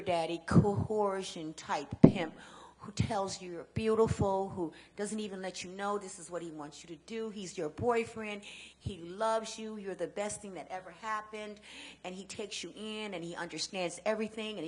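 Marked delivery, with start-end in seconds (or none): 2.8-11.6 sweet talk. Retold or imitated. Imitates pimp's sweet talk.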